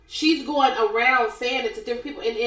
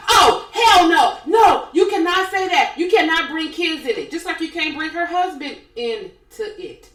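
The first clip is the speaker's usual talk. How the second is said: loud, high-pitched retold outburst; going off; 6 semitones higher, 6 dB louder than usual. Retelling Teresa's reaction to the rumor about her daughter, going off. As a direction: shout it as Teresa blowing up, easing in volume by the end. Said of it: "Teresa went off".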